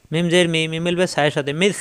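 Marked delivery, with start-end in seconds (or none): 1.5-1.8 মিস ending softly, tongue tip at the teeth edge. Shown as a demonstration. Teacher showing learners the letter in মিস, soft dental S. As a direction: let the end of মিস be a soft lisped th. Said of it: "নরম করে, জিব্বার আগা দাঁতের আগায়".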